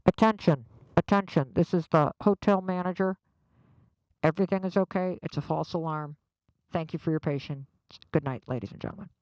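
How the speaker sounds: mock public-address voice; hotel manager announcement. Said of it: "we heard the manager go".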